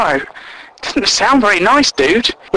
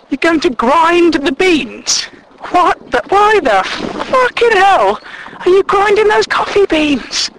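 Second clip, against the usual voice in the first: appalled disbelief; 10 semitones higher than usual. Retold or imitated. People hearing beans will be ground, appalled disbelief. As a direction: recoil at the crazy idea. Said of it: "And they go".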